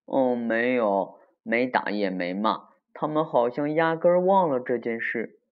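understated disappointed grumble; dejected. Acted. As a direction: sound let down and a bit whiny. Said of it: "可可垂头丧气地说".

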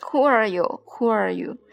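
loud echo that fades out. Acted. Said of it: "the echo answered".

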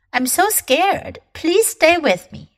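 a touch of acted fear; literal fear. Shown as a demonstration. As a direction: plead as if a little frightened. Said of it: "是我好害怕".

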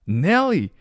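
high-pitched delighted call of a name; impressed father. Acted. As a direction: address the sitter with high, storybook delight. Father praising the sitter.

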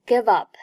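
"give up" said like "gi-vup"; linked pronunciation. Shown as a demonstration. Teacher demonstrates 连读, "give up" linked. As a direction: carry the v of "give" into "up". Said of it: "Give和up连读".

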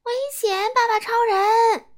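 warning shout, rising loud on 爸爸超人. Acted. Boy warning Daddy Superman of the monster, shouting. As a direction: yell a warning to the hero. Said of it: "我大声呼喊".

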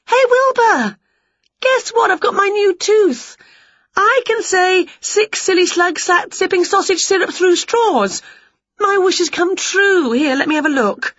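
high, loud, gleeful witch; bursting with her news; excited witch. A narrator's reading. Winnie telling Wilbur about her tooth, high excited witch.

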